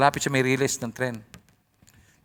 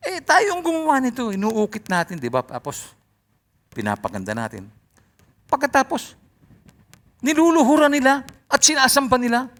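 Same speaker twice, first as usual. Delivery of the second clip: carver complaining; 9 semitones higher, 3 dB louder than usual. Retold or imitated. Acted carver complaining about worship.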